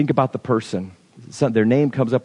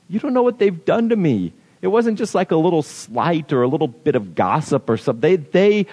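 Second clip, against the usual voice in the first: imitating the objector; 2 semitones higher than usual. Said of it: "and you say".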